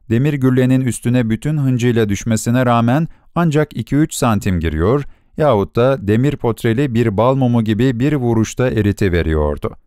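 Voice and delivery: plain reading voice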